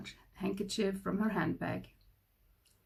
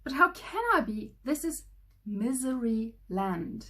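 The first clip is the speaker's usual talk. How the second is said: crying king; 5 semitones higher, 4 dB louder than usual. A narrator's reading. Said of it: "cried the king".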